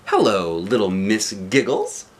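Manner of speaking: lightly voiced jolly man, slow greeting; cheery Mister Happy. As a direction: greet her like a beaming friend.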